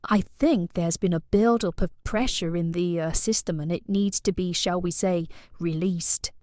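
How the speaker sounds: put-on suggestive posh English accent. Client asking plumber for the right tool, posh accent. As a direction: lay on innuendo in a posh lady's accent. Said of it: "I thought it was quite posh".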